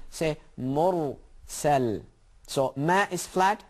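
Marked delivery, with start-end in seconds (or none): 0.6-2.0 syllable by syllable. Shown as a demonstration. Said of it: "practice that".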